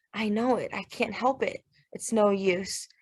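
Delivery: soft, defeated admission; hushed and broken; quiet despair. Acted. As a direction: let the words sink, giving up. Brother breaking down after silence.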